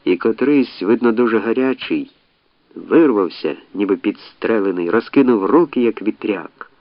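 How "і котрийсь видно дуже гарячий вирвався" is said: plain reading voice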